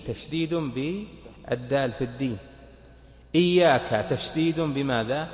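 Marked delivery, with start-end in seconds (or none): 3.3-4.1 إياك with a firmly doubled y, louder; marked shadda. Shown as a demonstration. Teacher counting the shaddas, إياك with its y firmly doubled. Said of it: "بالياء في إياك".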